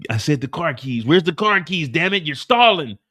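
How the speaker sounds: the gunman getting fed up; impatient hitman. Acted. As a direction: bark for the keys. Hitman losing patience.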